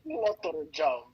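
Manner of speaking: high, loud laughing squeal. Real, not acted. Laughing, squealing over ladybug.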